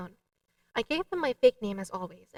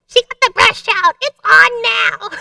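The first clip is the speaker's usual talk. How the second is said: excited; 11 semitones higher, 15 dB louder, slower than usual. Real, not acted. Excited, echo switched on.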